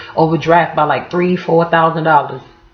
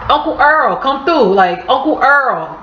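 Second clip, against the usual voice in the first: begging nephew; 5 semitones higher than usual. Retold or imitated. Nephew hitting up his uncle.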